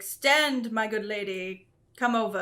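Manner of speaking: lightly gruff royal welcome, not much changed; gruffy dwarf king voice. Acted. GM voicing the dwarf king welcoming Lady Atria, lightly gruff. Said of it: "He has a big gruffy voice".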